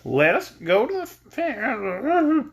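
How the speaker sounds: hint of a weird English girl; Scraps voice. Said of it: "I cannot get her voice to just come naturally".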